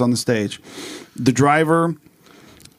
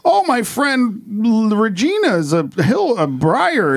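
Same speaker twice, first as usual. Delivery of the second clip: put-on niece's country accent; 7 semitones higher than usual. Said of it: "talking with a country accent".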